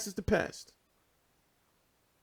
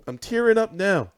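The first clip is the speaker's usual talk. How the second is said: louder, lightly tearful lament; mock tearful; 3 semitones higher, 5 dB louder than usual. Heartbroken fan after asking for a break, mock tearful. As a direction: play at welling up.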